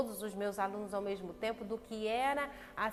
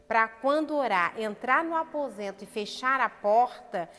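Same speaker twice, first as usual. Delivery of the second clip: forceful preaching; 7 dB louder than usual. Acted. Preacher stresses prayer instruction.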